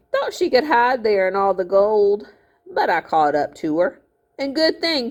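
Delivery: a hint of a smug old miller, gloating; lightly voiced miller. Miller gloating at the boy, smug voice. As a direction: play the scheming miller, lightly.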